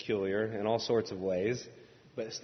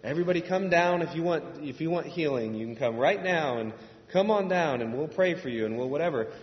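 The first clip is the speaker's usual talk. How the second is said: louder, higher revival-preacher call; charismatic pastor altar call; 4 semitones higher, 7 dB louder than usual. Retold or imitated. Pastor calling people down for healing, loud revival call. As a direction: summon the crowd forward. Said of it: "the sort of thing where".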